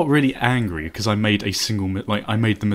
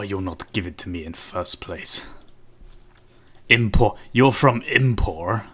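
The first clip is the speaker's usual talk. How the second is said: put-on rubbish Russian accent; 3 semitones lower than usual. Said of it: "rubbish Russian accent".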